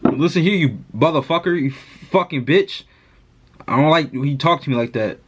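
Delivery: slurred pretend-drunk voice; fake drunk. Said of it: "I'ma act like I'm getting, I got drunk".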